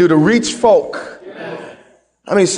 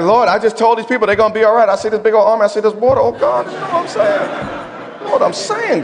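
nervous plea; 3 semitones higher than usual. Retold or imitated. Moses' anxious inner plea acted.

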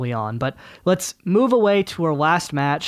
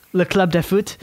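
French accent; 3 semitones higher than usual. Shown as a demonstration. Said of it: "every time I do a French accent, it's for".

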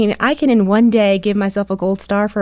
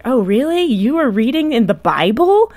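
teasing mock; 3 semitones higher than usual. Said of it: "and I'm like".

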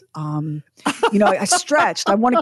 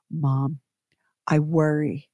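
soft, lower whispered worry; daughter's worried whisper; 5 semitones lower, 3 dB quieter, slower than usual. Retold or imitated. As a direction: breathe it like an anxious child. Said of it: "text message from my youngest".

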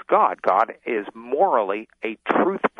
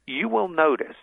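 ordinary talk, nothing marked

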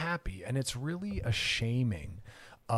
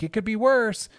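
dismissive; 8 semitones higher, 9 dB louder than usual. Shown as a demonstration. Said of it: "Instead of saying something like".

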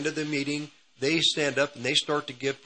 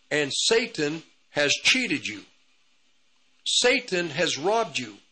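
angry prophetess; 3 semitones higher than usual. Retold or imitated. Prophetess pointing at him, scolding that Satan robbed him, retold with mild anger. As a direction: press each accusation down deliberately. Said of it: "and she got angry".

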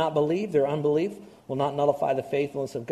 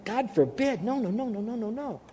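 emphatic refusal; 6 semitones higher, 3 dB quieter than usual. Retold or imitated. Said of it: "And he says the same thing".

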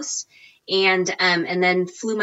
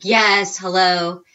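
a light, brisk put-on phone greeting; telemarketer voice; 4 dB louder, much slower than usual. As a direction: slip into a hint of professional phone voice. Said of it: "I put on my telemarketer voice".

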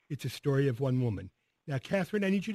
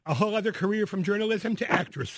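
laughing; 5 semitones higher than usual. Real, not acted. Host laughing at the joke.

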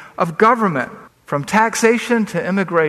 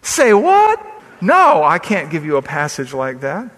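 put-on heavy Southern accent; 4 dB louder than usual. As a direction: imitate a Southern pastor's incredulous outburst. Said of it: "he's got a heavy Southern accent".

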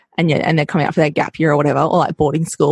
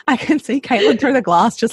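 laughing while talking; 7 semitones higher than usual. Real, not acted. Laughing at Caitlin's silent laughter.

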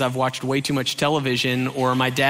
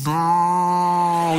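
drawn-out mock-horrified "no"; long groan of realization; dread-filled no; 3 semitones higher than usual. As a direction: stretch it out in comic dismay. Retold horror at bad news.

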